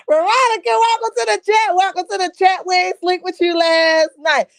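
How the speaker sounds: high-pitched giggly welcome through laughter; laughing greeting. Real, not acted. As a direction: greet her while still cracking up. Laughing while greeting chat viewer.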